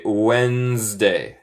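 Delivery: Wednesday said slowly as WENZ-day; Wednesday with the first D silent; pronunciation model. Shown as a demonstration. Teacher shows students the odd spelling's sound, slow clear Wednesday. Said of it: "deletramos extraño, pero se dice".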